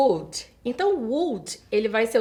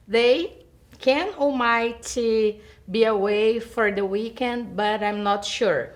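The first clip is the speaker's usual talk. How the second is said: slow, careful reading of an English example; teacher dictating an exercise sentence; slow lesson read; much slower than usual. Acted. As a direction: read it out slowly for students.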